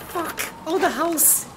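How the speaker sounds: like flying off a swing; thrilled scream. Real, not acted. Swing flying over house.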